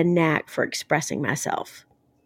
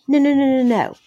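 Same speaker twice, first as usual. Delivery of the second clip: higher-pitched string of mock protests; retold quick denial; 5 semitones higher, 3 dB louder than usual. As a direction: wave the idea away, imitating yourself objecting. Acts out her own quick correction.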